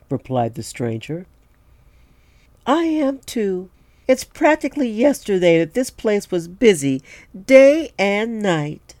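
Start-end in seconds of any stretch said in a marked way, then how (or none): 2.7-8.9 much higher wistful woman voice; high barmaid voice, slowing at the end; older woman voice. Acted. Cleo voiced in a story.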